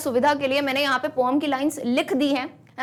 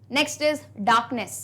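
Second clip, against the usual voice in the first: slow dictation repeat; 2 semitones lower, much slower than usual. Shown as a demonstration. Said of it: "चलिए".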